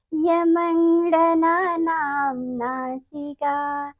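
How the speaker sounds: slow, measured chanting of the rule, each syllable drawn out; slow sutra recitation. Shown as a demonstration. Teacher chanting the Sanskrit rule slowly for children to repeat. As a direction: intone it slowly like a classroom mantra.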